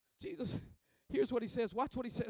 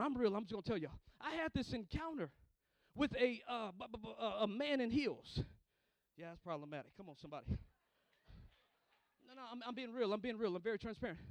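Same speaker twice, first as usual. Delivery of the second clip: much softer, lower, hushed confession; confiding quietly; 6 semitones lower, 15 dB quieter, faster than usual. Real, not acted. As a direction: lean in and confess to them. Confessing a private story softly.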